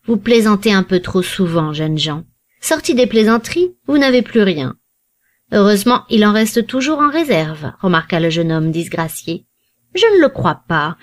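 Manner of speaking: a lightly voiced old man, gently scolding; old banker lecturing. An old banker scolding Lord Warburton, lightly voiced and reproachful. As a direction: lecture the idle young men like a grandfather.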